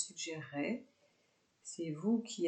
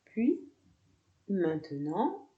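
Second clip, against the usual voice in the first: calm yoga nidra guidance with long pauses; guided meditation; 3 dB louder than usual. Real, not acted. Yoga teacher guiding students lying down with eyes closed, guided meditation. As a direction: lead them into relaxation, phrase by unhurried phrase.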